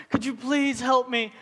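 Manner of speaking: slow, high tearful begging; mock sobbing plea. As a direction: plead in a hammed-up crying voice. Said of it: "he's just crying and sobbing".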